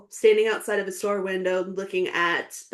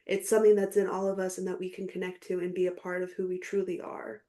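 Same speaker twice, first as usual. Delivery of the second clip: sincere tribute; 4 dB quieter than usual. Real, not acted. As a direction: speak it straight from the heart. Heartfelt thank-you to coach.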